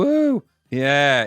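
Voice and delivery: high imitated "woo", half-hearted; unenthusiastic whoop. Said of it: "he's not enthusiastic about it".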